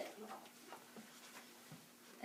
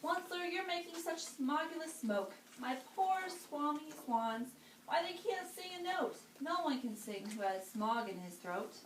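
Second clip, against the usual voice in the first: lightly voiced croaking creature, higher; croaky Lorax; 4 semitones higher than usual. Lorax complains to the Onceler about smog, light croak. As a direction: scold him through a sore throat. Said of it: "he cried with a coupleless croak".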